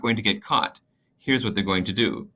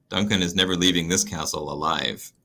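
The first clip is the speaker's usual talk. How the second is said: Lady Macbeth, menacing; 5 semitones lower than usual. Acted. Lady Macbeth vows murder.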